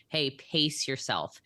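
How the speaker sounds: mock caution. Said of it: "people would say".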